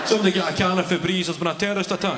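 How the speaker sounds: comic shouted emergency call; mock alarm. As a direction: call for help in hammed-up alarm. Comic outburst about the smell.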